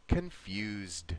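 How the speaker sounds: "confused" as kun-FYOOZD, clear final D; weak "con", long "you", voiced end on "confused"; pronunciation model. Shown as a demonstration. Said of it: "Try this again for me".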